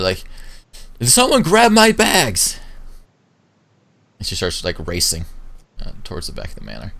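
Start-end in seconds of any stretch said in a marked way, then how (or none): 1.0-2.6 high, loud, drawn-out yell; imperious shout, stretched out and pitched up; yelling behind her. Acted. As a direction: holler back to the people behind you. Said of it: "she just kinda yells behind you".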